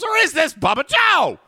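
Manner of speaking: voice-changer boom; mock villain voice through a changer; deep pitch shifted. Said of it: "with a voice changer".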